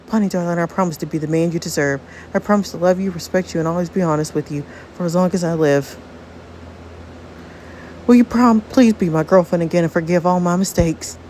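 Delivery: put-on earnest vow in a Southern accent; lightly attempted Southern accent. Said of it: "trying to do a southern accent with Frankie".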